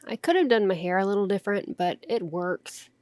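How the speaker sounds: words blurred by fake teeth; talking with fake fangs in. Real, not acted. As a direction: speak around fake fangs. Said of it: "very difficult to talk with these fake teeth".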